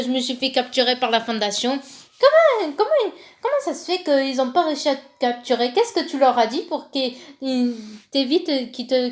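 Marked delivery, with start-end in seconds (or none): 2.2-7.1 surprised. Pretend. Mock surprised questioning.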